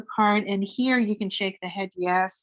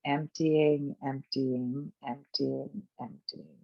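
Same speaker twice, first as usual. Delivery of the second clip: each empty softer and lower, fading out; fading exhale cue; 5 semitones lower, 6 dB quieter, slower than usual. Shown as a demonstration. Teacher cueing the exhale, fading softer each time. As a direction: let the voice empty out with the breath. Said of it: "fading emptying cue".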